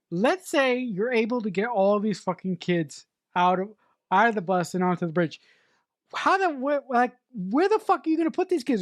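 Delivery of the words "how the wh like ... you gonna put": whisper. Real, not acted.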